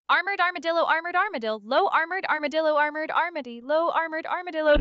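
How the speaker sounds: tongue twister in one unbroken run; sound-barrier speed attempt. Shown as a demonstration. Asked to break the sound barrier, racing tongue twister. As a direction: race through it with no gaps. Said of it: "Prepare for the sonic boom".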